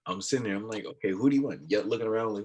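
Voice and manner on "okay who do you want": loud insistent mock yell; raised-voice retold question. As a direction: call it out as if over club noise. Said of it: "people see me yelling".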